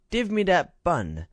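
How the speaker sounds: put-on high, lisping toddler voice begging for a bun; a tiny child who can't say her G's; baby-talk little girl. A narrator's reading. Ragged little girl begs.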